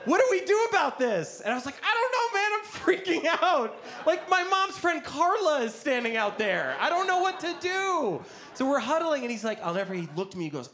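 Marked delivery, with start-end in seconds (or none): 0.1-1.4 high-pitched frantic plea; escalating, squealed alarm; panicked friend. Retold or imitated. 1.8-8.2 very high, panicked voice; hammed-up squealing panic; freaking out. Teen freaking out, retold.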